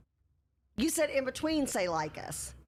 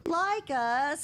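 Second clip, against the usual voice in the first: cheerleader; 4 semitones higher than usual. Pretend. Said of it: "I sound like a cheerleader".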